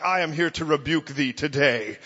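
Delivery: lightly voiced stern angel; a hint of solemn heavenly messenger; rebuking angel. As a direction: proclaim a mock rebuke. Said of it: "an angel showed up with his sword drawn".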